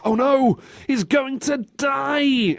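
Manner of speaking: high, drawn-out melodramatic dread; hammed-up panic; mock alarm. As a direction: cry out in pretend horror. Mock drama retelling game scene.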